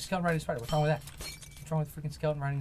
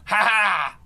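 mock evil laugh; 6 semitones higher, 11 dB louder than usual. Villain laugh after the kill.

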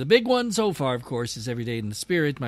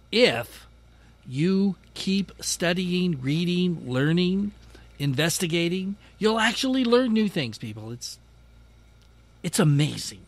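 sarcastic; 4 semitones higher than usual. Real, not acted. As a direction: feign wonder at something obvious. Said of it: "Yes, I'm being sarcastic".

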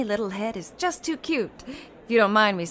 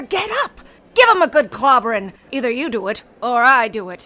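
loud, pushy egging on; fierce urging; 6 dB louder than usual. Acted. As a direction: rile him up to fight. Amelia urges Floyd to fight.

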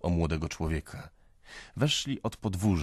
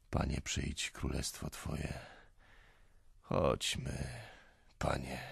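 whispered prayer, softer; quietly; 3 semitones lower, 9 dB quieter, slower than usual. Acted. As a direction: murmur the prayer under the breath. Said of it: "rzekł cicho". (cicho, szeptem)

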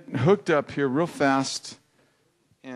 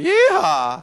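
cheerful yeehaw; 4 dB louder than usual. Shown as a demonstration. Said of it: "just say".

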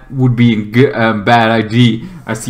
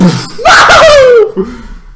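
loud, high drawn-out yell; high wordless outburst; 7 dB louder than usual. Acted. Acting out the explosion, high loud yell. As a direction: let out a long, high whoop.

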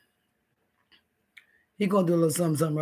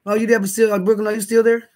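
raised, higher voice checking if she's still there; calling out; 4 semitones higher, 4 dB louder than usual. Real, not acted. Streamer calling out to Brooklyn in chat, louder and higher. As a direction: call out to her across the room, louder.

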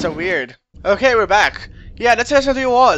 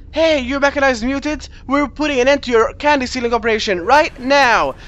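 bold challenge; 5 semitones higher than usual. Acted. Voicing a challenge to game villain.

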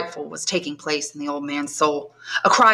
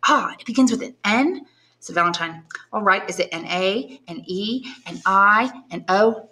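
put-on young woman pleading, raised pitch; young granddaughter. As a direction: coax answers from a mute grandfather. Valentine spells with grandfather.

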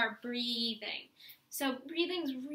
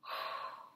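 belly breath; 6 dB quieter than usual. Shown as a demonstration. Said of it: "So watch me".

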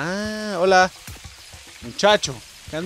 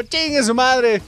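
high, loud, slow mock charge yell; hammed-up reckless war cry; battle cry; 14 semitones higher, 7 dB louder, much slower than usual. Gamer recalling rushing into fights, loud mock battle cry. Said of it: "me iba así como".

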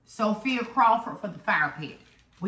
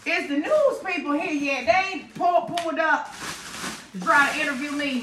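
excited; 5 semitones higher than usual. Real, not acted. Jokes about reporters arriving.

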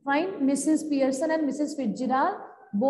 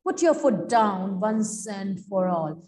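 lightly voiced loud, assertive character; Missus Fitzgerald; 2 semitones lower, 3 dB louder than usual. Fortune teller answering her neighbour, mildly loud and emphatic. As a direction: read it out firmly, a little louder, in measured phrases. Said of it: "In a loud voice she speaks".

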